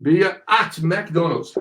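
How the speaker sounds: "at McDonald's" said slowly but joined up; slow model phrase. Shown as a demonstration. Teacher modelling the phrase for students, slow and connected. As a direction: say "McDonald's" carefully as one word.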